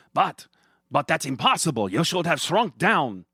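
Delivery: loud, high, stammering disbelief; stammering fear. Acted. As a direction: stammer in shock. Gargamel stunned and scared.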